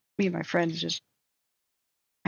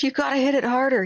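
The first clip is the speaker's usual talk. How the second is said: higher, louder retold shriek; 6 semitones higher, 4 dB louder than usual. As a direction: yell at him to hit it harder. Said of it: "I'm now shrieking again".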